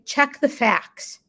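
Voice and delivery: "Check the facts" said very slowly, each word weighted; calm, slow self-reminder. Shown as a demonstration. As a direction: spell it out slowly like a mantra. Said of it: "And then I say".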